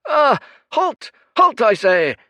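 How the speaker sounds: high, loud imperious shout; high priest crying after the fleeing girl; cried command. Acted. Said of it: "cried the high priest".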